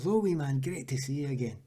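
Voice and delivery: lightly imitated Scottish greeting; toned-down Scottish accent. Footballer imitating a teammate greeting him, toned-down Scottish accent. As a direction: greet heartily in a part-strength Scottish accent. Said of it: "I'll not do the full accent".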